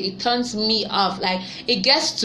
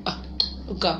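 normal talking voice

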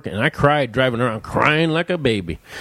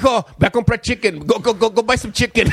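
higher, louder sing-song dad voice; dad's mock errand; 10 semitones higher, 3 dB louder, faster than usual. Dad sending his son off again, mock sing-song. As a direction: shoo him off in a half-sung voice. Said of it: "looked at me and goes".

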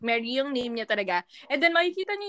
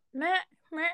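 higher-pitched European goat bleat; European goat accent; 6 semitones higher, 4 dB quieter than usual. Shown as a demonstration. Showing a friend how Europe's goats sound, high European bleat. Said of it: "in Europe daw".

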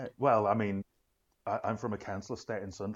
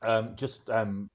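drinking between words; gulping a drink; 5 dB louder, much slower than usual. Real, not acted. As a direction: talk just after a gulp of tea. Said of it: "I'm gulping into the mic".

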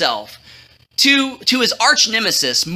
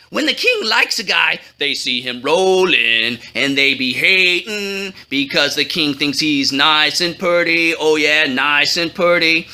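excited; 7 semitones lower than usual. Acted. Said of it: "said excitedly".

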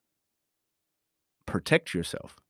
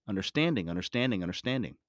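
fading repetition; 3 semitones lower, 6 dB quieter, faster than usual. Shown as a demonstration. Repeated word fading out.

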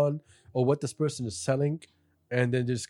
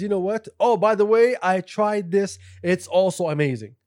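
mock excited hype; 3 semitones higher, 4 dB louder than usual. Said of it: "Turks goes out and says".

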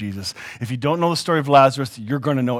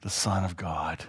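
slow, hushed reverence; in adoration; 5 semitones lower, 8 dB quieter, slower than usual. Acted. Disciples worshiping Jesus in the boat, hushed adoration. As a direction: sink slower, lower and softer in worship. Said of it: "They said in adoration".

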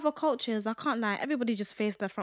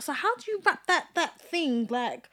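imitating nosy coworker; 7 semitones higher than usual. Voicing coworker then retort.

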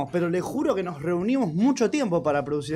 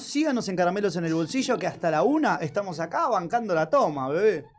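radio announcer. Acted.

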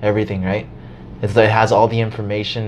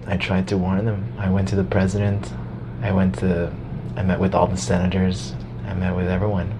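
softer, lowered solemn account; imitating Musk's grim tone; grave Musk tone; 4 semitones lower, 5 dB quieter than usual. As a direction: recite the warnings wearily. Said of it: "He says it with that tone of voice".

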